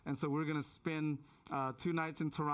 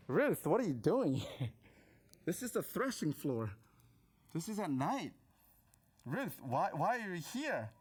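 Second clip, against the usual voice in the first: baffled Boaz. Acted. Imagined Boaz confronting Ruth at night.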